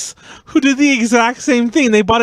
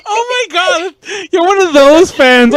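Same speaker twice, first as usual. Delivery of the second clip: high, laughing, louder mock idol; teasing idol impression; 6 semitones higher, 3 dB louder than usual. Friend teasing as the idols, high and laughing. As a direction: play the giddy idol.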